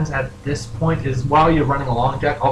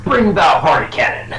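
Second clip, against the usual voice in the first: high, loud, drawn-out pony voice; stretched-out, high character voice; pink pony; 5 semitones higher, 6 dB louder, slower than usual. Acted. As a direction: proclaim it as an excitable cartoon pony. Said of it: "the pink pony goes".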